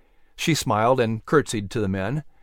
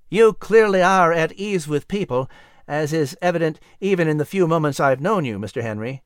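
a touch of envy, starting higher; envious compliment; 4 semitones higher than usual. Acted. Thomas watches people warm to Patrick, mildly envious. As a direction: compliment him with understated envy. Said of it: "complimented Thomas enviously".

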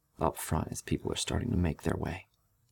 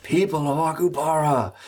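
loud booming proclamation; 11 semitones higher, 6 dB louder than usual. A narrator's reading. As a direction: boom it out with amplified voice. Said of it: "And she yells out".

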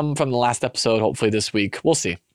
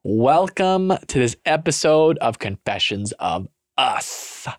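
podcast intro; slower than usual. Acted. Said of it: "Lindsay was not impressed by my intro".

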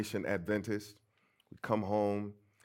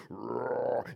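imitated roar. Preacher imitating the sound about to come, drawn-out roar. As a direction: draw out a mimicked rumbling roar.

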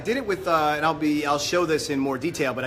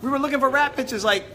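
high laughing pleas; 8 semitones higher than usual. Real, not acted. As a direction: laugh through the words. Laughing, urging Claudia to share.

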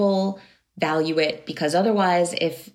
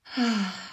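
deep breath out; 3 semitones higher, 4 dB quieter than usual. Shown as a demonstration. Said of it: "forgetting to take deep breaths".

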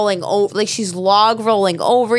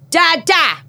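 mock baby cry for help, much higher; imitating a toddler; 10 semitones higher, much slower than usual. Mother imitates her baby calling to sleeping dad, toddler voice. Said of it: "she goes".

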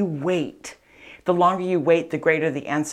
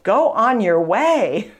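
dismissive; 5 semitones higher, 5 dB louder, slower than usual. Retold or imitated. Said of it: "He's getting rid of her".

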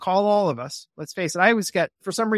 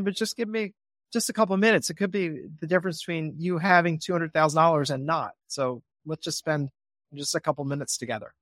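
calm reassuring pitch. Shown as a demonstration. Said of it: "Instead, I say".

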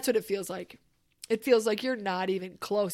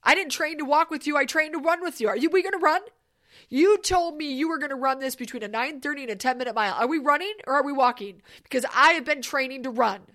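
trainer's fired-up rant; 4 dB louder, faster than usual. Retold or imitated. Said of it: "He's like".

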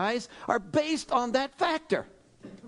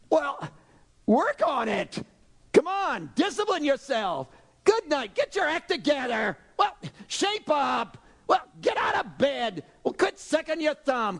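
nagging world; 4 semitones higher than usual. Retold or imitated. A preacher mimicking the world telling you to shape up. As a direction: bark the demands like a drill sergeant.

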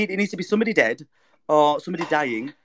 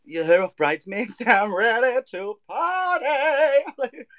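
put-on drunk party voice; 4 semitones higher, much slower than usual. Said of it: "I'll be like".

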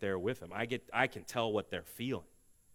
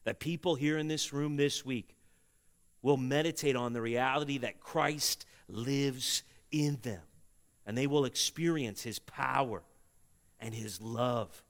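prayer. Acted. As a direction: pray it over the congregation. Leads closing prayer.

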